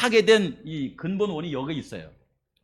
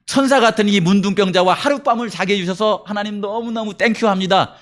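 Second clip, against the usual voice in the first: mock grateful prayer; 3 semitones higher than usual. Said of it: "이렇게 했을까요?".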